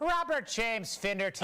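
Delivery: mock Irish introduction; hammed-up Irish accent. Host introducing an Irish commentator, hammed-up Irish accent. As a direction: roll out the name in a thick Irish accent.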